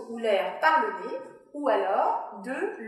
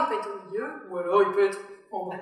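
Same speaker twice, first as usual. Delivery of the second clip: larynx elevator; 4 semitones lower, faster than usual. Shown as a demonstration. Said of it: "je peux m'amuser, ascenseur".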